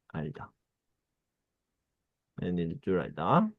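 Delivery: ordinary talk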